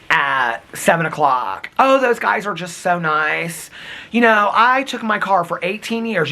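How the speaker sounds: a hint of his rambling mother; imitating mom. Son imitating his mom telling about her car. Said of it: "This is how my mom would talk".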